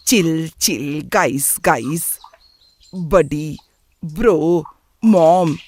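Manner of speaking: mocking list of his English slang, word by word; mimicking son's slang. Parent grumbling about how the son talks, mimicking. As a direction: parrot the son's catchwords with pauses between. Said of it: "क्या कहते रहते हैं".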